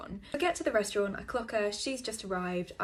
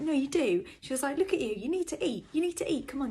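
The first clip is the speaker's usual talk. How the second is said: high insistent coaxing; nagging mother voice; 6 semitones higher, 6 dB louder than usual. Retold or imitated. Date insisting he eats, in a high motherly nag. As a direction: nag him to finish his plate. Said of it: "my mother would say".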